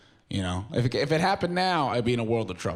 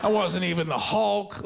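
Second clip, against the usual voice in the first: high, slow, whiny wail; crying on shrooms over mom's text; mock crying; 8 semitones higher, much slower than usual. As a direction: wail it up high and slowly, blubbering. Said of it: "I just started crying".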